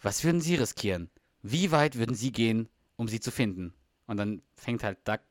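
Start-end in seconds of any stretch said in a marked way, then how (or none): 0.0-3.7 trailer narrator voice. Retold or imitated. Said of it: "diese Erzählerstimme wieder".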